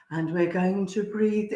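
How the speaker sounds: retold meditation lead-in, lightly done. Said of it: "I've done a meditation".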